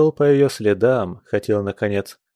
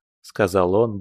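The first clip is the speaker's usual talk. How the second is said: plain reading voice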